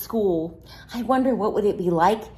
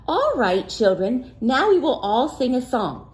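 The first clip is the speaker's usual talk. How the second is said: teacher; 3 semitones higher than usual. Acted. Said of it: "said the teacher".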